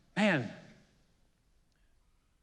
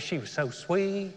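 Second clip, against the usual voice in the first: imitating a sweet southern lady; slow down into a sweet southern accent; lightly put-on southern lilt; 3 dB quieter, slower than usual. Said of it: "had a southern accent like this".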